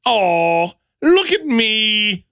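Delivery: high, drawn-out mock-drunk Irish; bad Irish accent. Shown as a demonstration. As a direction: stretch it out like a hammed-up tipsy Irishman. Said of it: "Can I hear the accent?".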